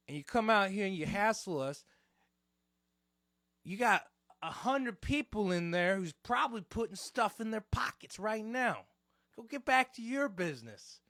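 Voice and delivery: loud, high-pitched mobster tirade; full goomba mode. Retold or imitated. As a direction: tell her off like a TV wiseguy. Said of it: "I went full Goomba mode".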